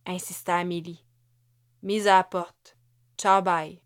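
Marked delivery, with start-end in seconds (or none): 1.8-3.8 bitter outburst. Acted. Wife tells husband she's fired.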